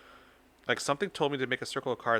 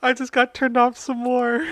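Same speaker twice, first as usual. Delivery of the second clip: louder, higher, hammed-up disgust; pitched-up hammy complaint; mock outrage; 11 semitones higher, 11 dB louder than usual. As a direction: overplay the disgust.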